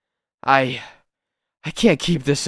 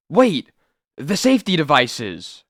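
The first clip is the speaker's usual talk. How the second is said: excited call; 3 semitones higher than usual. Acted. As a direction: blurt out the idea. Sudden idea of rescue.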